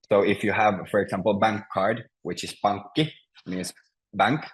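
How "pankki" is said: pankki with the stress on PANK; first-syllable stress. Shown as a demonstration. Teacher gives Finnish word for bank, stress on first syllable. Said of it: "the first is always stressed".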